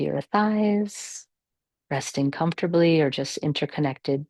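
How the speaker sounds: calm, measured meditation guidance with long pauses; guided meditation. Real, not acted. Yoga teacher settling the class into natural breathing, calm guided meditation. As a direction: guide them gently through the breath, unhurried.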